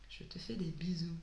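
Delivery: soft, low, half-whispered croak; real hoarse voice, dropping low and quiet; broken, hoarse voice. Real, not acted. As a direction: blow kisses in a cracked, creepy-sounding whisper. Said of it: "Quand je dis ça avec ma voix cassée, on dirait une grosse sadique".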